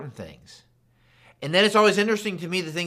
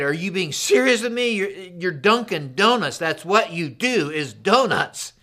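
higher-pitched mock outrage at the clerk; incredulous protest; 3 semitones higher than usual. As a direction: act out a baffled customer, drawing out the key words. Retold argument with donut shop clerk.

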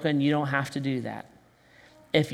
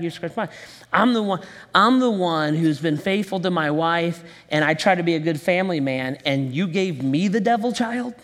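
aggrieved complaint. Retold or imitated. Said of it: "my attitude toward God is".

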